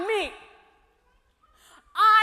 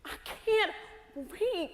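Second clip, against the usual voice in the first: very slow and softer, word by word; drawn-out despair; 4 semitones higher, 6 dB quieter, much slower than usual. Acted. Broken woman telling hope she cannot breathe, slow and soft. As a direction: stretch the words out as if short of air.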